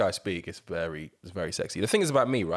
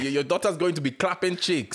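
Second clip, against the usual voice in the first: mocking voice; 8 semitones higher, 3 dB louder than usual. Mocking voice to Michael Owen.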